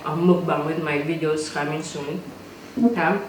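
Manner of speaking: talking with food in mouth; words round a bite of food; mouth full. Real, not acted. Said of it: "Sorry, I'm talking while my mouth is full".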